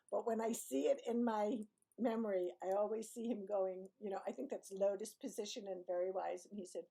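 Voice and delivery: normal talking voice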